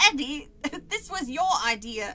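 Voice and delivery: badly faked British reading; hammed-up British accent on a character line; attempted London accent, half laughing; fake British accent. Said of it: "what a fucking British accent sounds like".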